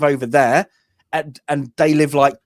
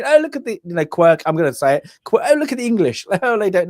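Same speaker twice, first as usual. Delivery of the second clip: mocking; 5 semitones higher, faster than usual. Mocking film's view of English.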